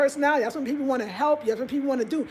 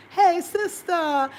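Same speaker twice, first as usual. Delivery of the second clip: calling sister; 6 semitones higher, 3 dB louder, much slower than usual. Retold or imitated.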